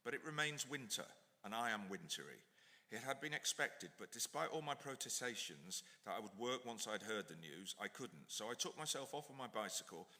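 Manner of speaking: measured, reflective book reading; reading from his book. Acted. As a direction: author reading his memoir aloud. Reads aloud from his book.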